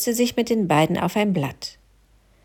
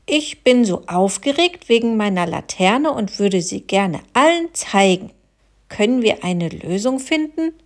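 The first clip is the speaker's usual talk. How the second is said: modeling feelings; 3 semitones higher than usual. Shown as a demonstration. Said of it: "Zum Beispiel".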